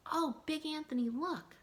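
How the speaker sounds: startled nun calling out; surprised call. A narrator's reading. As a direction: gasp it out, alarmed. Sister alerts him.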